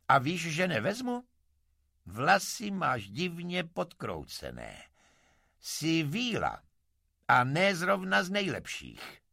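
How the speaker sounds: loud, high-pitched rebuff to the fairy; blunt refusal. Acted. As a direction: turn her down loudly, drawing out the accusations. Vozka rázně odmítá vílu. (hlasité, rázné odmítnutí)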